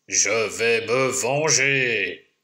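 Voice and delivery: low, slow growled threat. Acted. Lumberjack growling his revenge, low and slow. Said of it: "gronde le bûcheron".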